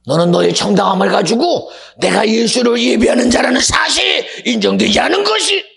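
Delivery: high, loud accusing proclamation; full-force preaching. Acted. Preacher charging listeners with lost worship, full force. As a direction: hammer the charge home, climbing in pitch.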